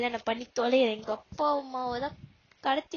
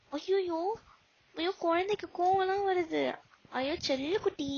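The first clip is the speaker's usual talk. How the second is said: higher, mocking baby talk; mock cooing; 5 semitones higher than usual. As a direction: coo at her like a sulking child. Mocking her anger as babyish. (குழந்தையை கொஞ்சுவது போல கேலியாக உயர்ந்த குரலில்)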